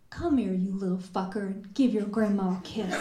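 put-on fond, quick grandmotherly call to a child; affectionate grandma. Grandma calling a toddler over, affectionately. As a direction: tease the child into a kiss. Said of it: "term of endearment".

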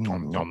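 playful nom-nom eating noise; munch greedily on imagined food; mimed munching. Pretend. Fan relishing Southern away games, playful munching.

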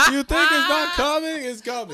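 loud, high, hammed-up African accent, played for laughs; terrible African accent. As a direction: do the terrible African accent again, even bigger. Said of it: "it's a terrible African".

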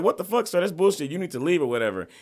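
the store clerk calling out a rude customer; cashier scolding. Retold or imitated. Voicing the cashier scolding him.

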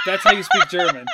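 put-on high, loud kid voice through laughter; playful child impression; imitated young daughter. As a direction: announce it like a little kid, laughing. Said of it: "And then she goes".

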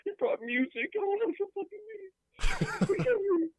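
high, loud frustrated outburst. Acted. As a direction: burst out in frustration. Frustrated caller.

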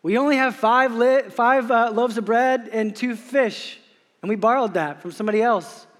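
flustered disciples with a nervous laugh; panicked disciples. Retold or imitated. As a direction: plead helplessly, we don't have enough. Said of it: "and they say".

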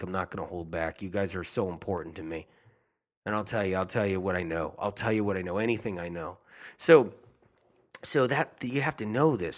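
normal talking voice

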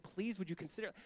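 soft, humble request; gentle and humble. Acted. Daniel politely making his request to the king, gentle and humble. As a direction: ask gently, with deference. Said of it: "like, gently and humbly".

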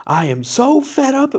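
put-on squeaky high baby voice, fed up; high-pitched baby voice. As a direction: whine it like an angry baby. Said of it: "a high-pitched baby tone voice".

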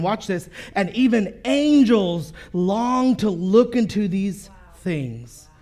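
measured reading of scripture to the church. Acted. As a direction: read the verses steadily to the congregation. Pastor reads scripture aloud.

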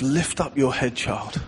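put-on soft and gentle, fading away on child; a gentle father's tone; tender fatherly call. Shown as a demonstration. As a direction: say it like a loving daddy, not a master. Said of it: "it's not this".

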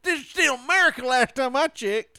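high, loud indignant hick voice; belligerent redneck. Pretend. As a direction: bellow like an offended patriot. Playing outraged patriot.

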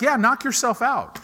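high, loud sarcastic dismissal; God brushing off the proud preacher, sarcastic and loud. Retold or imitated. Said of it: "He's like".

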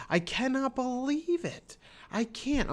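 high, slow, drawn-out disbelief. Real, not acted. Podcaster reacting to the show's twist, slow high disbelief.

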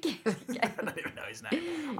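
giggling through the list; laughing. Real, not acted. Laughing while defending her podcast comments.

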